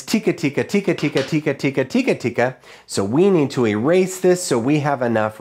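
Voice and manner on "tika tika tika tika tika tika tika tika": quick, even rhythm syllables; rhythm demo. Shown as a demonstration. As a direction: say each "tika tika" in a brisk, steady beat. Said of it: "our rhythm is".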